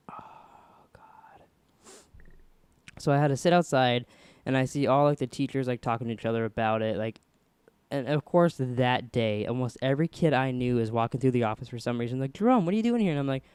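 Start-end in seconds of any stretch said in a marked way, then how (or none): 0.1-1.4 very soft, voiceless retold horror; whispered dread. Retold dread, dad is coming. 12.3-13.1 high-pitched imitation of puzzled schoolmates; retold surprise. Schoolmates greeting him in surprise, retold.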